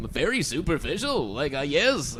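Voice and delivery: news anchor voice. Retold or imitated. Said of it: "a news anchor voice".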